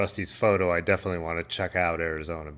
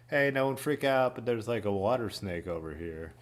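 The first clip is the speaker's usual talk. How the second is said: imitating an unbothered lifeguard, trailing off softer; nonchalant; 3 semitones higher, 4 dB quieter than usual. Lifeguard warns swimmers about a water snake, mock nonchalant. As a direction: play down the warning, casually mock-calm. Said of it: "the lifeguard nonchalantly is like".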